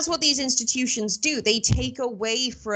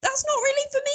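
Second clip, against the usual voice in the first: mock prissy voice. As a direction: play it as a prim sceptic. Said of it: "I thought".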